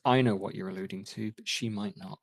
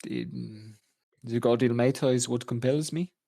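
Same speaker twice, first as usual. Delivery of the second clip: put-on French accent. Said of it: "your fucking horrible French accent".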